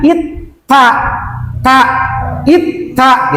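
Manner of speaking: "it, ta" with a firm held t; doubled t drill. Shown as a demonstration. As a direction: sound out "it", then a crisp "ta".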